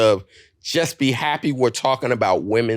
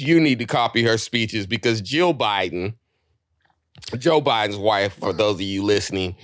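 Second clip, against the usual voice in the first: ordinary talk, nothing marked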